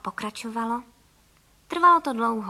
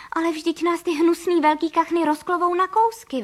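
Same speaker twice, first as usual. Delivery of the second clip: higher, louder frightened protest; alarmed mother bird, raised voice; frightened cry; 5 semitones higher, 6 dB louder than usual. Acted. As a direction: cry out in fear of the ducks. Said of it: "vykřikla paní Frejková".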